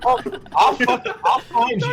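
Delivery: raspy menacing threat voice; gravel voice. Retold or imitated. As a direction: growl it like a vigilante. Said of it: "Gravel Voice".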